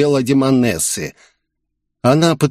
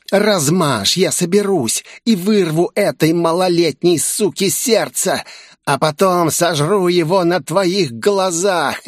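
higher, menacing demon voice; demoness threat; 6 semitones higher than usual. Acted. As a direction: play a hungry demoness gloating over souls. Demoness threatens to eat heart. (угрожающий голос демонессы, выше обычного)

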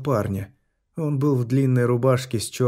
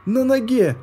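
shout; 12 semitones higher, 5 dB louder than usual. Acted. Helper shouting during surgery.

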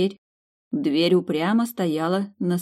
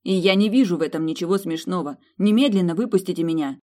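furious; 2 semitones higher than usual. Acted. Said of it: "Милли была в бешенстве".

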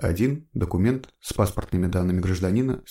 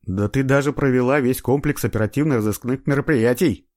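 louder, admiring praise; admiring exclamation; 5 semitones higher, 5 dB louder than usual. A narrator's reading. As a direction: marvel at her legwork. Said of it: "восхитился следователь".

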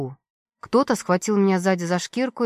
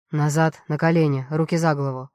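lower, gruff guard barking orders; a hint of a gruff guard yelling; 4 semitones lower than usual. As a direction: bark commands at the prisoner. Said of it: "Заорал он на меня".

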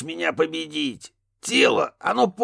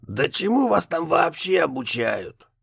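higher, slow exasperated ghost; indignant ghost; 7 semitones higher than usual. A narrator's reading. Ghost Raphael scolding Kurt, indignant higher voice. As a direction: scold the useless rookie. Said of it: "возмутился Рафаэль".

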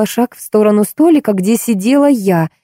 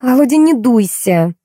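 higher, slow coaxing; wheedling; 6 semitones higher than usual. A narrator's reading. Woman placating offended man, wheedling. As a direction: coax him out of sulking, unhurried. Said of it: "завиляла хвостом женщина".

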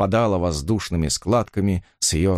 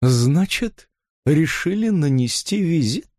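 sneering; 7 semitones higher, slower than usual. A narrator's reading. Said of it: "Наконец процедила".

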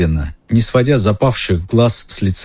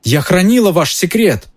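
high, upset cry; shouting; 10 semitones higher than usual. A narrator's reading. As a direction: yell it at Lupin in betrayal. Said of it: "кричала Гермиона". (Гермиона кричит на Люпина, высоким голосом)

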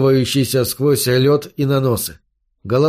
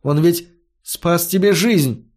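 pressing; 4 semitones higher, slower than usual. A narrator's reading. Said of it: "напористо говорил Фари".

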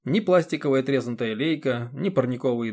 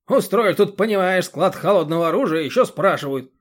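high, loud irritated lecturing; a rough man yelling at a deaf old woman; loud scolding yell; 6 semitones higher, 7 dB louder than usual. A narrator's reading. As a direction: scold her at full volume.

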